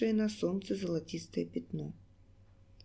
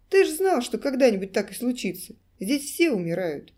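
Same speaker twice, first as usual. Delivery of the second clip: shouting down; 4 semitones higher, 6 dB louder than usual. Acted. Gymnast shouts down at him.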